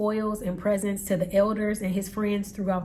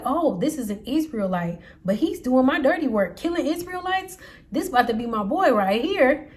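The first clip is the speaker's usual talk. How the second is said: gleeful scheming; 4 semitones higher, 4 dB louder than usual. Retold or imitated. King gloats over his double agent.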